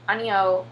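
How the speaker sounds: "Aennyo" spoken as the Korean no; 아니요; Korean word. Shown as a demonstration. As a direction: say "Aennyo" clearly, Korean style.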